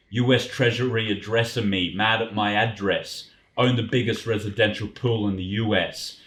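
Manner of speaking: rhythmic reading of rap lyrics; rapper's cadence. Shown as a demonstration. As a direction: keep the rapper's flow in your own voice. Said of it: "I'll do it in his cadence".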